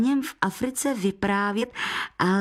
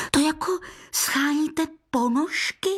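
put-on boy asking; 7 semitones higher than usual. A narrator's reading. Boy asks guest.

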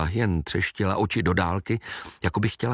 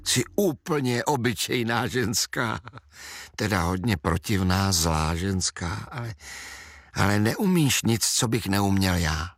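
calm. Acted. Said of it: "řekl klidně".

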